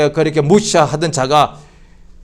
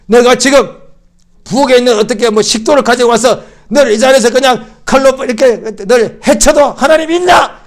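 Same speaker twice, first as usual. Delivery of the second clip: retold threat; 6 semitones higher, 4 dB louder than usual. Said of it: "그때 제가 그런 거 아니에요".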